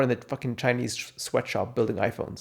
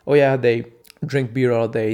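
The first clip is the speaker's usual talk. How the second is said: louder, breezy mock voice; mock enthusiastic quote; 8 dB louder than usual. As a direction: play it up as if it were normal. Mock description of student lifestyle.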